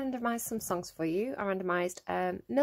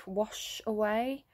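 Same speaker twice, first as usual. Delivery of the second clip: slow drawn-out echo; much slower than usual. Shown as a demonstration. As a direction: let "wash away" linger slowly like water running. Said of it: "I'm hearing".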